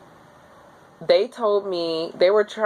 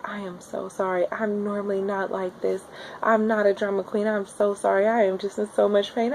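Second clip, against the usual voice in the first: sheepish apology; 3 semitones higher, 6 dB quieter than usual. Retold or imitated. Apologizing softly after contraction.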